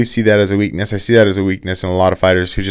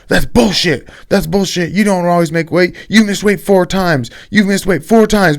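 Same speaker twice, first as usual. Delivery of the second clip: much higher, whiny mock of an angry accusation; high mock-angry put-on voice; mocking Izzy; 10 semitones higher than usual. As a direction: squeal it out like a sore rival calling a bluff. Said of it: "And Izzy's like".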